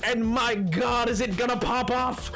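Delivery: hyped announcement. Real, not acted. Streamer announcing the vods channel to chat, hyped. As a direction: announce it big and high, stretching the words.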